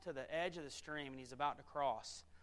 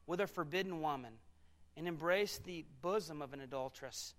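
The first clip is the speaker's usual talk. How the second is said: measured reading in spaced phrases; solemn Bible reading, a pause after each phrase; scripture reading. Acted. Preacher reads Proverbs to the congregation, measured scripture reading.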